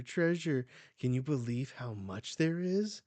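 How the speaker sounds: loud, gleeful exclamation; acted excitement. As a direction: marvel at a hoard, hamming it up. Treasure hunter exulting.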